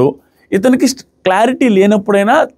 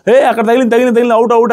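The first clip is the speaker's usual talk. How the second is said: retold crowd yelling; 5 semitones higher, faster than usual. Players clamouring to the referee that it touched, mock yelling. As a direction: imitate players calling "out" in a rush. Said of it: "వీళ్ళందరూ అరిచారు".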